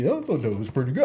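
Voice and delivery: imitating an English kid's goofy American accent; lightly mocked English-American accent. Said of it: "his really goofy English accent".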